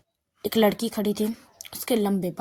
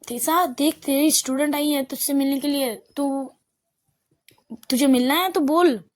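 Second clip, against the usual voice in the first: raised voice calling into the house; calling out inside; 3 semitones higher than usual. Acted. Girl calls inside to Tisa about the student, raised call. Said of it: "वो चिल्ला के कहती है अंदर तरफ".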